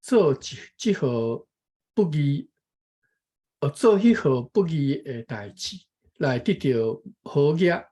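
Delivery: measured, careful reading of a text; reading aloud. Real, not acted. Taking a turn to read the passage, careful reading aloud. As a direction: read it out phrase by phrase.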